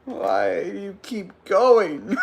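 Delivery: slow plea through laughter; amused groan of a question; laughing plea. Real, not acted.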